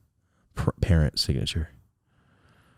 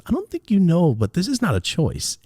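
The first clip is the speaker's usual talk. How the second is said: imitating dad; 10 semitones higher than usual. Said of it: "he talked to me like I talked to him".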